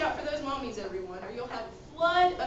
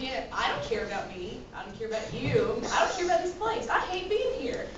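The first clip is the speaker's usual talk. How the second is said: gloomy downer. Acted. Debbie Downer rants gloomily.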